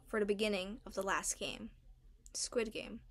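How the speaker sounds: unvoiced dramatic whisper. A narrator's reading. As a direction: hush it like a reveal. Dramatic build to final game.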